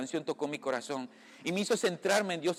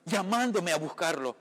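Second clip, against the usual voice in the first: emotional, moved; 2 semitones higher than usual. Real, not acted. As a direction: voice lifted with real emotion. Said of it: "perdón si me emociono".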